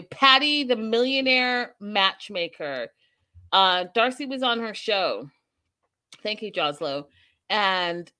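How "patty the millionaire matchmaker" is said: announcer hype. Acted. Announcing the show host.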